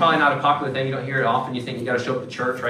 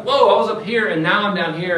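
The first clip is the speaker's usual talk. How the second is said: high, loud startled "Whoa"; whiplash shock; 6 semitones higher, 5 dB louder than usual. Retold or imitated. Believer crashing from the camp high, startled and high. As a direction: sound jolted and disoriented.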